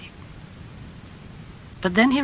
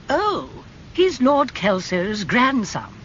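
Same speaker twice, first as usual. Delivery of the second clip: put-on higher, surprised old aunt; Lady Agatha voice; 8 semitones higher, 3 dB louder, slower than usual. A narrator's reading. Aunt greeting her nephew, high and surprised. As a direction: tease him with mock surprise.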